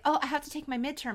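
mock confusion, quick and high-pitched; confused. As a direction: imitate someone muddled and hurrying. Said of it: "She's really confused".

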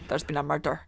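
a quick, low Glasgow cop line from Taggart; Taggart impression. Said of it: "start doing Taggart impressions".

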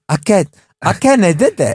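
high, babyish mock toddler. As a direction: mimic a toddler, mocking. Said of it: "Why do you sound like a toddler going".

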